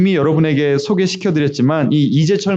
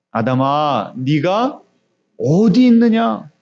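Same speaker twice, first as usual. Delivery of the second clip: God questioning Adam; much slower than usual. Acted. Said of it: "하나님께서 아담에게 물어보셨어요".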